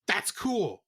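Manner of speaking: sarcastic thumbs-up tone; mock approval. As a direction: fake praise, then dropped. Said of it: "where it's like".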